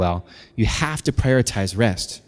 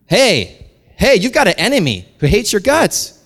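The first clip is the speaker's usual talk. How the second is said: high, loud preacher's shout; raised-voice alarm; urgent warning; 9 semitones higher, 6 dB louder than usual. Real, not acted. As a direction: call out to jolt the congregation.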